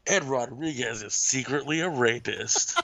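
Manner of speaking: slow announcer parody; mock attack ad. Co-host firing back a fake attack ad, announcer voice. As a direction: draw it out like a smear-ad voiceover.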